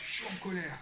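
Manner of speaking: mild imitation of an upset child; imitated upset child. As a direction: mimic a child owning up to anger, without volume. Voicing his angry child's answer.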